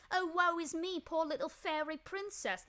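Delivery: high, hammed-up fairy princess wail; theatrical fairy-princess lament, pitched high; mock damsel voice. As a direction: put on a silly damsel-in-distress voice to mock him. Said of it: "whatever the fuck she just did with her voice".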